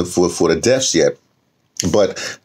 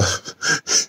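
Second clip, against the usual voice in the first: soft laugh; 6 dB quieter than usual. Real, not acted. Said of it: "a laugh or a giggle at something".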